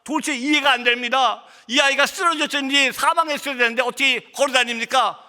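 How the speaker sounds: retold astonishment, pitch climbing; astonished doctor. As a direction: act out a baffled doctor, voice rising. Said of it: "의사가 깜짝 놀랍니다".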